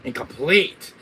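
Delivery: grandiose villain shout; loud, high, drawn-out proclamation; hammed-up mastermind climax; Wesker. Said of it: "That line with Wesker R five".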